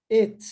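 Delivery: "it" como "et"; it with e sound. Shown as a demonstration. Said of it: "tá vendo".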